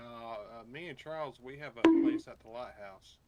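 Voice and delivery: ordinary delivery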